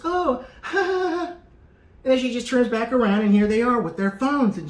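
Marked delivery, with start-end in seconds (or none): 0.0-1.3 high, awkward mock laugh; fake laugh. Lady laughing off the bumped arm, awkward fake laugh. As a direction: laugh it off nervously. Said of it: "she goes".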